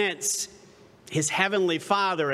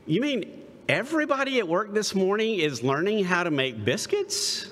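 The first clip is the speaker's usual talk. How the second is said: higher, questioning mock disbelief; incredulous customer; 4 semitones higher than usual. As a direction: retell it in rising disbelief. Retold incredulous customer at drive-through.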